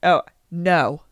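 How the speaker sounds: unruffled no; calm refusal. Acted. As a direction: refuse calmly, without rising to it. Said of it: "Calmly again".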